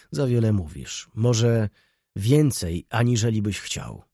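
pointed emphasis on „więcej”, set apart by pauses; emphatic. A narrator's reading. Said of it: "dodał z naciskiem".

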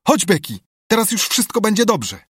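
loud, high joyful calling; joyful shout. Acted. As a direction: call out with sudden relief. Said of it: "zawołał Tomek".

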